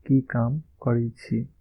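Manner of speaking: slow, careful Maithili model line; slow Maithili demo; slow model phrase. Shown as a demonstration. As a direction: say it slowly, like a teacher modelling. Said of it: "यहाँ पे काम को काम ही बोल सकते हैं".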